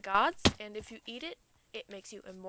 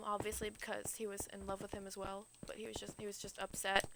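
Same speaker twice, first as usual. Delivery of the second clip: hushed unvoiced aside, like a secret; whispered aside; 2 semitones lower, 6 dB quieter than usual. Real, not acted. Telling listeners a secret in a whisper. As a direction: lean in and whisper the gossip. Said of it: "aside in whisper".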